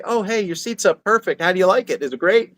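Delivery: bright, high, upbeat encouragement; cheery praise. Retold or imitated. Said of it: "And then I say".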